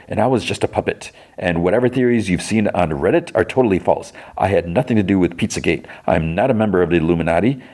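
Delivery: lightly voiced theatrical actor; Trevor Slattery. Actor explains his past to a fan, lightly voiced. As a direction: protest the rumors in a put-on actor voice. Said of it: "So it's Trevor Slattery".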